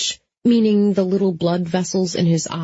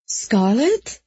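sleepy voice; 4 semitones higher than usual. A narrator's reading. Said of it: "a sleepy voice".

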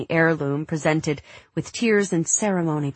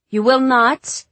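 angry; 8 semitones higher, 8 dB louder, slower than usual. Acted. Mother forbids daughter going out.

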